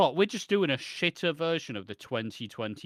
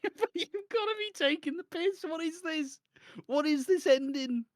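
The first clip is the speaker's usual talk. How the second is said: exasperated disbelief; 12 semitones higher than usual. Real, not acted. Ranting at the ending.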